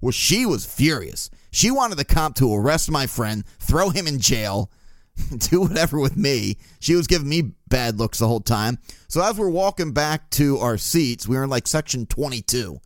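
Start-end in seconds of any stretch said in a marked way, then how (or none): none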